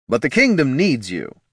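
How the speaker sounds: a hint of a noble knight; lightly voiced earnest paladin; gallant knight. A narrator's reading. Champion voice.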